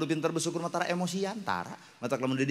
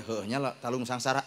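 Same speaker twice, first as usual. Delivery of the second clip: quieter, resigned listener's reply; resigned mumble; 4 dB quieter than usual. Retold or imitated. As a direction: mumble it like a shrugging villager. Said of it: "Tapi cek Bapak teh". (ngagerendeng pasrah, leuwih halon)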